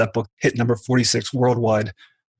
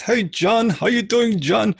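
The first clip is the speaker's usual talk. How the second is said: high-pitched imitation of a posh English accent; a playful take on his English narrator's accent; mock English accent; 10 semitones higher, slower than usual. Guest imitating his narrator's English accent, high and playful. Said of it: "he's got this English accent".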